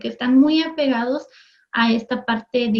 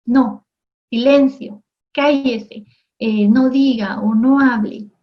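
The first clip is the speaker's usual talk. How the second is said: put-on adult snapping at a noisy child, a little louder; scolding adult; 4 dB louder than usual. Adult silencing a playing child, mock scolding. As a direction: hush the kid sharply, mock-stern. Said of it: "el adulto viene y le dice".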